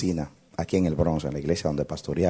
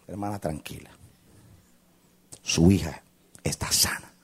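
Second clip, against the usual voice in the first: reassuring. Retold or imitated. Pastor calming the crying mother.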